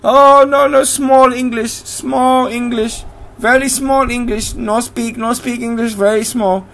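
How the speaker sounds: put-on high, slow broken-English accent; mock foreign accent. Host imitates Bolivian cleaner pleading poor English, mock foreign accent. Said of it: "I don't know why I'm sounding Chinese".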